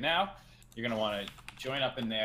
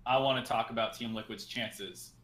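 slow, noncommittal example; vague caller take. Shown as a demonstration. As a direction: say it slow and aimless. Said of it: "that's pretty vague".

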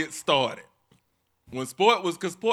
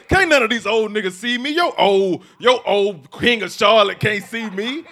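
loud boasting; 2 semitones higher, 8 dB louder than usual. Retold or imitated. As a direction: trumpet it like a bragging host. Imitates the boastful host.

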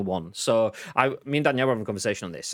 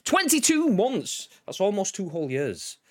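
amazed; 8 semitones higher than usual. Real, not acted. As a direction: stretch it out in awe. Exaggerated amazement.

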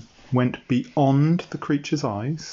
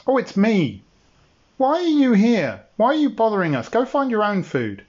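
higher, grumpy brush-off; annoyed dinosaur; 8 semitones higher than usual. Acted. Lara tells Bob to go away, higher and grumpy. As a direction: shoo him away, irritated.

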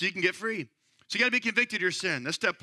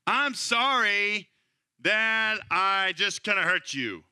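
vague apology; much slower than usual. Shown as a demonstration.

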